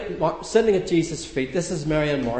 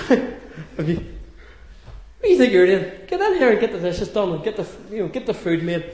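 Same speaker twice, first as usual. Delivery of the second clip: bossy sister. Retold or imitated. Mary imagined scolding Martha to get the dishes done, mock bossy. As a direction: boss her in mock outrage. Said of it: "she's sort of thinking".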